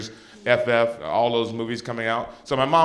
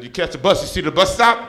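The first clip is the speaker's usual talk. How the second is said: higher, louder sassy mom; 4 semitones higher, 7 dB louder than usual. Retold or imitated. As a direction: tease him like a tipsy mother. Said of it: "She said".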